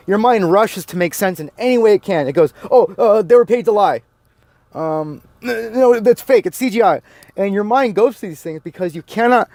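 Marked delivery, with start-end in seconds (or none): 2.7-5.7 mocking panicky excuses. Ranter mimics a believer's flustered excuses, mocking. Mind scrambling to dismiss evidence. 5.7-6.5 higher, louder mock denial; mock indignant denial. Ranter mimics a believer denying the evidence, mock indignant. Mind scrambling to dismiss evidence. 6.5-7.0 mocking panicky excuses. Ranter mimics a believer's flustered excuses, mocking. Mind scrambling to dismiss evidence.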